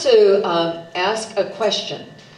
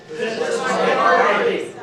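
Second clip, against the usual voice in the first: yelled out; 6 semitones higher, slower than usual. Pretend. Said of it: "if you're an independent, go".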